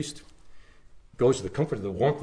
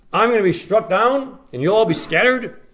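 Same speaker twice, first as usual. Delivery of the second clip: higher and louder, as if it can't be right; incredulous echo; 9 semitones higher, 6 dB louder than usual. Acted. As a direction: quote it back in disbelief. Preacher voices the shocking scripture.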